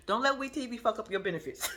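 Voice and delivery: words breaking into laughter; laughing at her own advice; laughing while talking. Real, not acted. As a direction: giggle through the warning.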